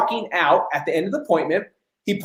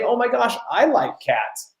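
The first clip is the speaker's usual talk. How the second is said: fake gushing; 6 semitones higher, 3 dB quieter than usual. Shown as a demonstration. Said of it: "instead of saying".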